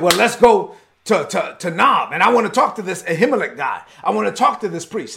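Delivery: mildly angry retold royal demand; furious king. Furious king telling his men he wants the priest, mock anger. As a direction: act out a king set on confronting someone. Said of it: "Saul was furious".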